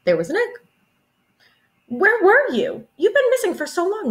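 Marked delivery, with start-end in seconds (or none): 1.9-4.1 worried mother. Acted. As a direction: draw it out high like a mother who has been searching. Mother worried about missing Jane.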